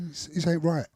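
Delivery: a quiet voice of doubt; little inner voice. Acted. Quoting the little voice inside as doubts crept in, softly. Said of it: "a little voice was saying".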